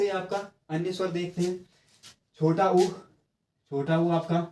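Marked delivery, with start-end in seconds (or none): 2.4-4.4 ऊ in छोटा ऊ dragged slowly; stretched ऊ. Shown as a demonstration. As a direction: draw out the ऊ sound slowly. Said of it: "ऊ आपने खींचा". (ऊ को धीरे-धीरे खींचकर बोलें)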